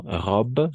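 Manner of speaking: "Robe" ending on the b; silent final E. Shown as a demonstration. Teacher showing learners the ending, "Robe" with final e silent. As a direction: say "Robe" as one syllable with French r, no final vowel. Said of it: "no pronunciamos la E".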